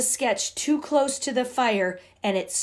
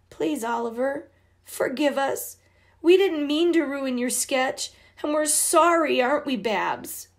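put-on higher, pleading little girl; 5 semitones higher than usual. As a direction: beg her brother to forgive. Girls beg forgiveness.

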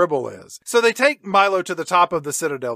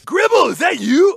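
high, loud startled shout; calling out; 11 semitones higher, 5 dB louder than usual. Acted. Milo splashed with paint on the ledge, calling out. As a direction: call out high to someone unseen.

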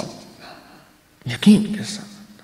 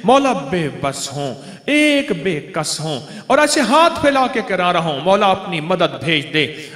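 pleading prayer, pitch lifting on each appeal; supplication; 2 semitones higher than usual. Acted. Helpless servant calls on his Lord for mercy, pleading.

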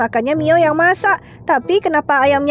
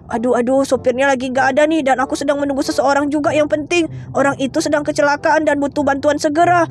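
lower, puzzled doctor; a doctor asking what's wrong, lower; 4 semitones lower than usual. Acted. Doctor figure explains. (dokter bersuara lebih rendah)

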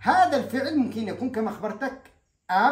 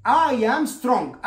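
each word stretched out very slowly; slow model sentence; 4 semitones higher, 7 dB louder, much slower than usual. Shown as a demonstration. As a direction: spell it out slowly for learners. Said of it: "مثلًا". (نطق بطيء جدًا للجملة)

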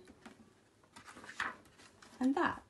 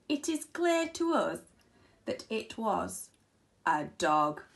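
lightly voiced flies. Flies deliver their verdict.

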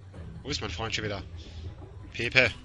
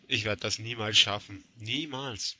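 despairing whimper; 5 semitones lower, 4 dB quieter than usual. Real, not acted. Overwhelmed by enemies, despairing.

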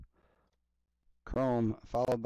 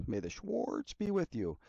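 much higher, softer sci-fi movie line; mock movie quote; 10 semitones higher, 4 dB quieter than usual. Vlogger joking over a card named Schwartz, high mock movie quote. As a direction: ham up a film catchphrase, pitched way up.

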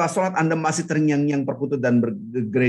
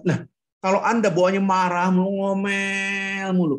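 NGOMEL stretched long and raised; "ngomel" held on one long, higher note; drawn-out stress; 5 semitones higher than usual. Shown as a demonstration. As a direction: drag out "ngomel" like endless nagging. Mimicking constant nagging.

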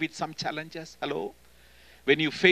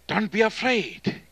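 higher, louder, slow "Don't be afraid"; proclaiming angel; 7 semitones higher, 6 dB louder than usual. Retold or imitated. Angel of God calling to Gideon, high and loud. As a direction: call it out as a heavenly messenger.

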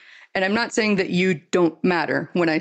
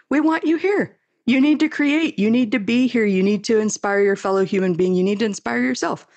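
passionate rant; 4 semitones higher than usual. Real, not acted. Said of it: "I did not anticipate that rant".

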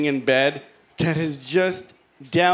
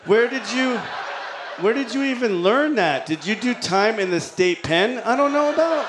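shocked disbelief; 6 semitones higher than usual. Retold or imitated. Shocked at wife's language.

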